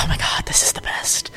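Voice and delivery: whispering. Retold or imitated. Excited self-quote, hushed.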